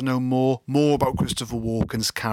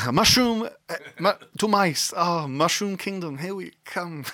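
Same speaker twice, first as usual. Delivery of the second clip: higher cartoon plumber Italian accent; mock Italian accent; 7 semitones higher than usual. Riffing on Walken's Italian accent as a cartoon plumber. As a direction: chirp it like a video game plumber. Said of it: "that Italian accent".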